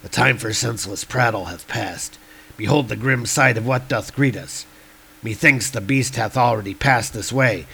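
lightly voiced somber warrior; Hogun. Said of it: "says Hogun".

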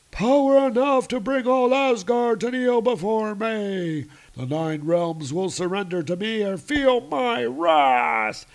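high, loud booming villain; dark lord. Acted. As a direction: gloat over the realms. Frost giant boasting his power.

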